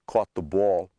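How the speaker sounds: "Caught the ball" with open aw in both stressed words; East Coast vowel. Shown as a demonstration. Teacher giving an East Coast example, aw in "Caught the ball". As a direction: say "Caught" and "ball" as cawt, bawl. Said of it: "if you're from the East Coast".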